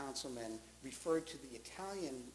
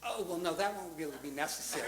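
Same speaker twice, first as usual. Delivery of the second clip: higher, louder polite demurral; imitated father on phone; 4 semitones higher, 6 dB louder than usual. Father to caller offering to blow up house, mock-polite demurral. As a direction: play the courteous refusal up for laughs. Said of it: "on the other end, I'm hearing".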